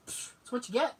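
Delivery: dismissive puff, then offhand verdict; imitated unsympathetic dad. Dad to fallen granddaughter, mock no sympathy. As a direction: puff air and brush her off. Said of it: "With no sympathy at all".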